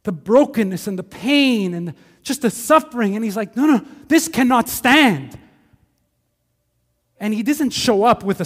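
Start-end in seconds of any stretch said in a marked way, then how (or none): 3.5-5.4 slow, firm, a bit higher; resolute. Retold or imitated. Jesus facing the broken city, slow and resolute. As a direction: plant your feet on every word.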